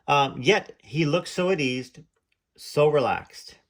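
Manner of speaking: slowing right down into a breathy hush; slow and easy. Acted. Host lingers on how relaxed a singer looked, slow and hushed. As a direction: let the words melt, easy and relaxed.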